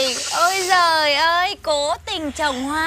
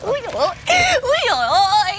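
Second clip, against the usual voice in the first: mock outraged exclamation; 5 semitones higher, much faster than usual.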